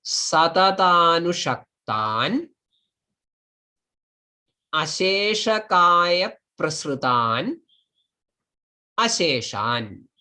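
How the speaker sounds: "satatanushaktan", "asheshakaya prasrutan", "asheshan" set apart by long pauses; rising at each break, falling on the last "asheshan"; split word by word. Shown as a demonstration. Teacher showing how the block should be split, word by word. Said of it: "This should be split like".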